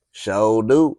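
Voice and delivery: light Southern drawl on sure do; Southern accent. Shown as a demonstration. Showing how to read in the South, light Southern accent. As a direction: say it easy and Southern. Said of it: "this the South, so you wanna talk, like, with the South".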